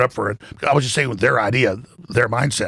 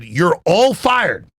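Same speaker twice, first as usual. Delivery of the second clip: slow, higher-pitched imitation of an angry boss; retold yell; 4 semitones higher, much slower than usual. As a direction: draw out an imitated furious dismissal. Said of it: "he yelled some".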